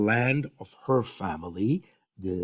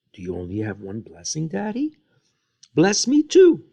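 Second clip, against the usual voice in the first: crying plea; 6 semitones higher than usual. Retold or imitated. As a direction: beg the father, voice breaking upward. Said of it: "And he was crying".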